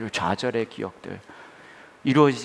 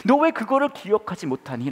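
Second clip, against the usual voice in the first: God scolding; 12 semitones higher than usual. Acted. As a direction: call them out sharply, raised voice. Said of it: "하나님은 뭐라고 하시냐 하면". (하나님이 답답해서 호통치듯)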